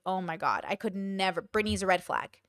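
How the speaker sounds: lightly imitating judgemental listeners, low and soft; low, hushed mock judgement; mock disapproval. Voicing disapproving listeners of her story.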